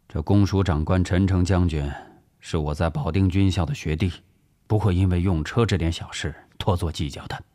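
steady, composed explanation; calm reassurance. Acted. Officer assuring family his old schoolmate won't mind, calm.

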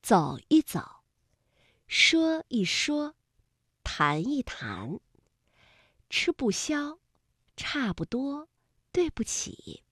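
touch 一 lightly in 走一走, 说一说, 谈一谈, and 不 in 吃不消, 差不多, 对不起; word list with a weak, toneless middle 一 or 不; neutral tone. Shown as a demonstration. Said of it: "我们给它读轻声".

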